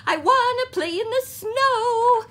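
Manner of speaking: high, loud little-frog voice; Froggy pleading to play; excited Froggy. A narrator's reading. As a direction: beg like an eager child. Froggy's eager plea.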